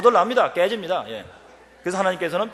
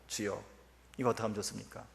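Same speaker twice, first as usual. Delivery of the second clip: softer, lower quiet plea; hushed prayer; 6 semitones lower, 13 dB quieter than usual. Retold or imitated. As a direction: pray it under your breath. Retold private prayer.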